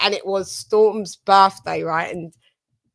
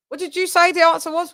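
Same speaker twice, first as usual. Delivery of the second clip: put-on child's voice; 9 semitones higher, faster than usual. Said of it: "my eight-year-old says".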